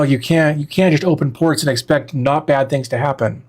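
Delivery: talking between slurps of hot tea; sipping hot tea. Real, not acted. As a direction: slurp tea mid-sentence. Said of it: "Sorry if you hear me slurping".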